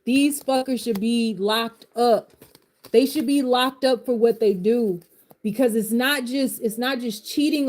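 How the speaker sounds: rising heat, pushing harder each line; venting outrage at the cheaters, fired up; passionate rant. Real, not acted. Coach to followers about cheaters, passionate and heated. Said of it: "I'm so passionate about this shit".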